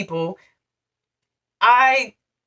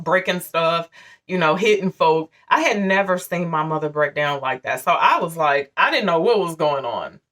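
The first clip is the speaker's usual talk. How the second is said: usual speaking voice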